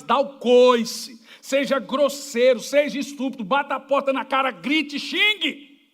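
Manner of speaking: slow, punched-out preacher's orders; emphatic preaching commands. Acted. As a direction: hammer each command at the crowd. Preacher barks blunt commands.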